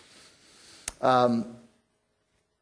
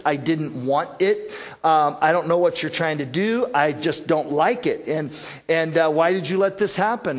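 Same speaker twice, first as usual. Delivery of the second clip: mild complaining; 3 dB louder than usual. Retold or imitated. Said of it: "Sometimes our attitude is".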